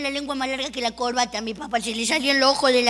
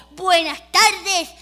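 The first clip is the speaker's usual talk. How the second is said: slow, grand announcer's opening, louder; auctioneer voice; 4 dB louder, slower than usual. Retold or imitated. Auctioneer greets the room, slow and grand. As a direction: open the auction like a showman. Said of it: "Apareció un señor adelante de todo y dijo".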